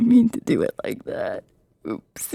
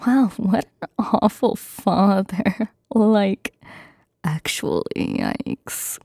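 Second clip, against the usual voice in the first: ASMR whisper. Acted. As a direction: whisper every word close to the mic. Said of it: "my first time doing A S M R".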